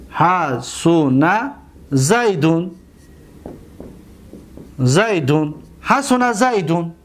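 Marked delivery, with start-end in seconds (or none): 0.1-5.6 drawn-out syllables with pauses, lower pitch; measured word-by-word dictation; slow dictation. Shown as a demonstration. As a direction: say it slowly for students writing it down. Dictating the example slowly.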